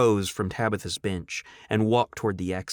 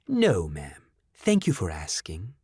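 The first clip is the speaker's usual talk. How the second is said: slow calm robot; 4 semitones lower than usual. Acted. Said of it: "the bot said slowly".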